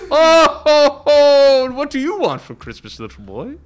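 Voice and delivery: high, loud cheerful elf greeting. Pretend. Mall elf asking a kid what he wants, high and loud. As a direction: ask like a jolly mall elf. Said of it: "Give me your best elf voice".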